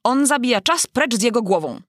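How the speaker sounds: bawling. A narrator's reading. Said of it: "gardłując".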